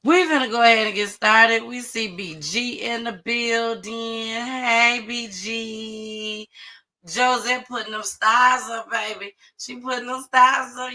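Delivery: sing-song shout-out to the room; hype host shout-out. Real, not acted. Host greeting viewers as the show starts, hyped.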